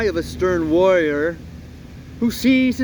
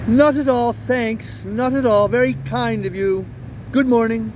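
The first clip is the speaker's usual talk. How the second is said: flustered retreat; 4 semitones higher than usual. Acted. Dog backing away flustered.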